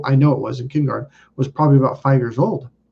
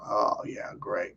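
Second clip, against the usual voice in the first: mock whisper; 6 semitones lower, 13 dB quieter, slower than usual. Mock relaxed reply during healing.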